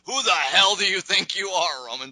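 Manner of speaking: imitating Triple H mimicking her rage; mocking echo. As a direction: throw her words back with mock fury. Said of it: "Calm down, calm down".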